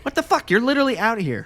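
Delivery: high, loud what the fuck; outraged disbelief. Real, not acted. Reacting to a friend's turnaround, loud shocked disbelief. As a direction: shoot the pitch up in shock. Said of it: "outraged disbelief".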